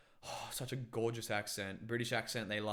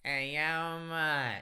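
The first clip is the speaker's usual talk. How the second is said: higher, louder Australian bogan greeting; Aussie bogan accent; 4 semitones higher, 5 dB louder, much slower than usual. Acted. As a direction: call it out in broad bogan Australian. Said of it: "Aussie, Aussie bogan accent".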